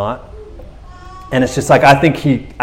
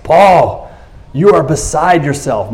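retold loud voice; 3 semitones higher, slower than usual. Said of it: "with a loud voice".

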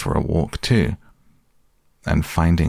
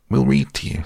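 bright and much higher; cheerful; 8 semitones higher, faster than usual. A narrator's reading. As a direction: chirp it out cheerfully. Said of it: "said Rabbit cheerfully".

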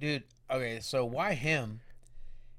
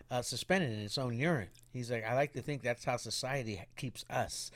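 soft musing, imitating someone trying to sound deep; mock profound; 3 semitones lower, 9 dB quieter than usual. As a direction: play at being a quiet philosopher. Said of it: "He's all trying to make it deep".

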